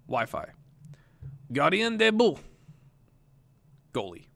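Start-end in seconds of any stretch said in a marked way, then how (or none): 1.5-2.4 "Gardien de but" said in French, high and loud; French phrase. Shown as a demonstration. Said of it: "I'm gonna say the word".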